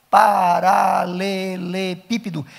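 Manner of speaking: paralelepípedo drawn out slowly, every syllable spoken clearly; slow clear pronunciation. Shown as a demonstration. Pastor showing teachers how to pronounce paralelepípedo, slowly and clearly. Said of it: "Então, a pronúncia".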